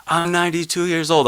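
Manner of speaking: voicing the old woman, lifted and earnest; elder's words. Activist recalls a ninety-two-year-old elder's plea, in a high, earnest quoted voice. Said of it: "she was like".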